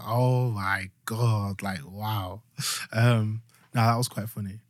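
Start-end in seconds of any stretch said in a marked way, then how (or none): 0.0-2.4 awed wow. Retold or imitated. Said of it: "I was like".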